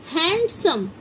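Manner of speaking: „हैंडसम” with a clearly sounded d before the s; błędna wymowa z „d”. Shown as a demonstration. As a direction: say हैंडसम as HAND-sum, keeping the d. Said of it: "कई लोग हम में से हैंडसम पढ़ते हैं".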